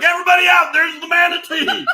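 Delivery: high mock shout; captain imitation. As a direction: holler orders to everyone aboard, hammed up. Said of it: "He's like".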